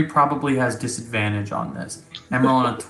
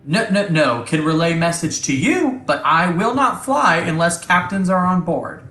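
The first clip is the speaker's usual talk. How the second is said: lightly voiced computer refusing an order; a hint of insistent machine speech; Ava, robotic ship intelligence; 5 semitones higher than usual. Ava tells the crew she will not fly, lightly robotic.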